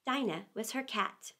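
long a little for home; Alice missing her cat. A narrator's reading. Alice fretting about her cat Dinah. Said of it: "Alice talking again".

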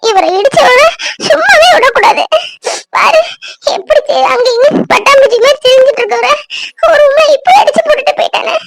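hammed-up sobbing with sudden high cries; mock crying. Friend fakes tears to fool Poomari, hammed-up crying. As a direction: squeeze out fake tears, wailing now and then.

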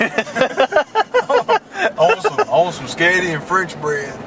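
mock-childish pleading for sketty; whiny craving voice. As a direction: drag out the first "I want some" way up high, then settle.

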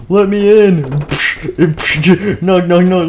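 loud, high call through the door; shouting to be let in. Acted. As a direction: bang on the gate and yell to be let in. Locked out, shouting at gate.

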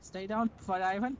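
thick mock Russian accent. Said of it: "I can't say meth in a Russian accent".

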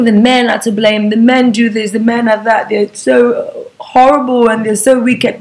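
mock-complain, slowing towards the end. Mimics women blaming all men.

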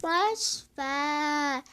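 talking while chewing gum; words round a piece of gum. Real, not acted. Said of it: "Ağzımda sakız var bu arada".

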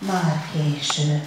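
croaked in despair; hoarse croak. A narrator's reading. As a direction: let it break out of a tight throat. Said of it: "a torkából rekett hang tört ki".

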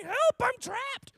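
slow, high imitated child's plea; mock cry for help. Teacher retelling to kids how she screamed, high mock plea. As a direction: replay the scared kid's call, drawn out and high. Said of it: "my dad didn't hear me screaming".

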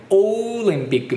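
オリンピック with a long round opening "oh"; British rounded O. Shown as a demonstration. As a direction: stretch and round the first sound of オリンピック. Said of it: "オーって音を丸く出すんですよね". (「オリンピック」の頭を丸く伸ばして)

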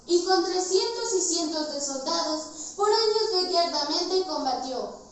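loud, soaring declamation of the fight; rising battle cry. Acted. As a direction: swell up proudly on the battle. Battle climax of recited poem.

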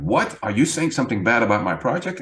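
fast, bristling what; mock defensive. Coach acting out a defensive listener hearing feedback, bristling. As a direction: take offence quickly, half-acted. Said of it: "you become defensive".

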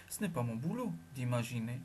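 low, annoyed growl at the accusation. Acted. Jaël growling back at Sancha, low and annoyed. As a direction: grumble it out, guilty and cross. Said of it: "grognai-je, furieux".

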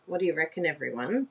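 ordinary talk, nothing marked

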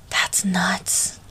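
soft unvoiced whisper; breathy whisper. A narrator's reading. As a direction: breathe it out in awe. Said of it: "Linda breathes".

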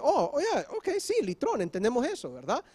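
high, quick, delighted realization; eager disciples. Acted. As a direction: act out the sudden aha of the disciples. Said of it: "los discípulos inmediatamente dicen".

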